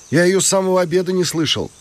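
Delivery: high, carrying call from a window. A narrator's reading. Макар calls down about the silent dog, calling out. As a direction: pitch it up and call across. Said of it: "крикнул Макар из окна".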